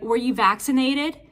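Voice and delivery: loud, pointed demand; accusing question. Retold or imitated. Charge nurse confronting an old covid patient, loud and accusing. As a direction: lean in and confront him. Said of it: "and's like".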